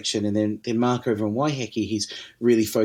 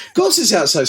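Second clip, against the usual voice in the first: laughing it out, high and louder; can't hold back the laughter; 4 dB louder than usual. Real, not acted. Recalling the whiskey distillery visit to the host, real laughter. Laughing at his own story.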